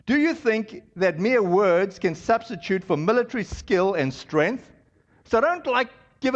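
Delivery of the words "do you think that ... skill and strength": mocking taunt. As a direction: scoff at them like a boastful enemy commander. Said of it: "So the guy's shouting out".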